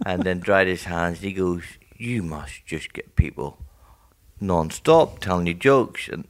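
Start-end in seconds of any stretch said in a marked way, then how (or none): 2.0-6.1 put-on mild sympathetic old man. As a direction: say it kindly and slow.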